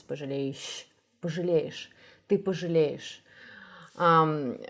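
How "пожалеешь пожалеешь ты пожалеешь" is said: "пожалеешь" with a light, short final ш; don't push the end of "пожалеешь"; unobtrusive ending. Shown as a demonstration. Teacher correcting the line, understated ending. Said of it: "the ending shouldn't be so obvious".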